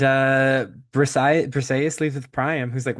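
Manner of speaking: usual speaking voice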